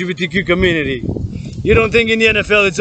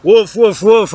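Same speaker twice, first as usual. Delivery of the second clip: mock barking; 3 semitones higher, 4 dB louder, slower than usual. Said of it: "Stop barking at me".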